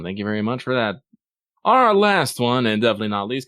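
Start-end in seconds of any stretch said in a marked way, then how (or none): 1.6-2.7 high, slow, loud build-up; announcer voice. Acted. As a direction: draw it out like a show host. Announcing the final letter.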